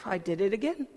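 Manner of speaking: soft, quiet "I did it again" with a little laugh; sheepish realization. Retold or imitated. Caught rambling in front of colleagues, quiet sheepish laugh. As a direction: catch yourself, embarrassed, half laughing. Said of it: "I'm like".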